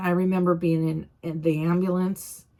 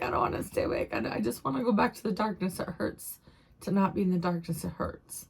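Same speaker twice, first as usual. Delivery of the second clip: tearful whisper; 3 dB quieter than usual. Real, not acted. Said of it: "I told myself I would not cry".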